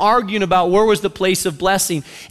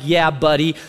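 dismissive sarcasm; 6 semitones lower than usual. Retold or imitated. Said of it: "she's just looking at him like".

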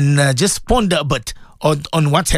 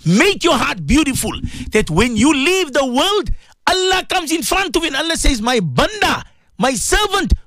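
raised, impassioned plea to the listeners; fervent preaching; 7 semitones higher than usual. Acted. Radio host pleading with his listeners to have a heart, fervent preaching. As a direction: preach it, pitch lifted high with urgency.

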